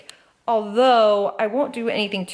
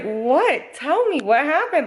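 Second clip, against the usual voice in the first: higher-pitched, worried questioning; seriously concerned; 6 semitones higher, slower than usual. Retold or imitated. Husband to his gasping wife on the bed, concerned. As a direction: imitate an anxious husband pressing for answers. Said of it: "seriously concerned".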